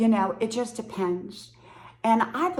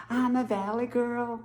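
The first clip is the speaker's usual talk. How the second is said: put-on half-remembered Valley girl accent; attempted Valley girl; 3 semitones higher than usual. Shown as a demonstration. Can't remember how to do it, attempted Valley girl. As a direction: lightly try on a Valley girl voice. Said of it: "talking like a Valley girl".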